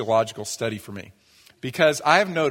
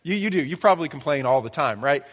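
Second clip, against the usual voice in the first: sarcastic retort. Retold or imitated. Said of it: "I go".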